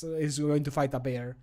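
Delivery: ordinary talk, nothing marked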